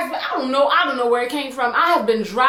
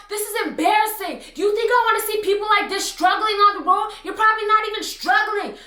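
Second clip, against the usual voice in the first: mild mock yell; 6 semitones higher than usual. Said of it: "yelling at the top of her lungs".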